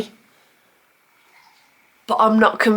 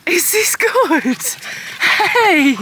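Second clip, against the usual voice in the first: high pet-talk voice; 8 semitones higher, much slower than usual. Real, not acted. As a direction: coo at the dog. Talking to the dog.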